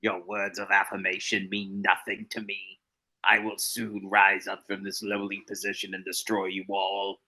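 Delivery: lightly voiced dog villain, muffled; menacing pet voice through a hand; dog puppet voice. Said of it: "We have to keep the Bean voice alive".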